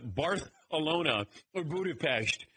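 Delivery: Barcelona with a th, Budapest with sh; over-enunciated. Shown as a demonstration. Family over-enunciating to annoy him, lisped Barcelona, sh in Budapest. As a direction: overdo Barcelona as Bar-thuh-lona and Budapest as Buda-pesht. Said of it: "we over-enunciate just to annoy him".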